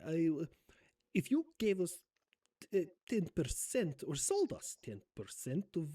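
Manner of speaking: 폴란드와 러시아가 섞인 듯한 Zelensky 억양; 머뭇거리며 말하는 Zelensky 억양 흉내; Zelensky accent. Acted. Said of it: "weird mashup of Poland and Russia".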